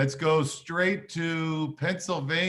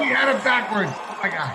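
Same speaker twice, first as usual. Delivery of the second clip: surprised; 6 semitones higher, 5 dB louder than usual. Real, not acted. Prediction reversed, host surprised.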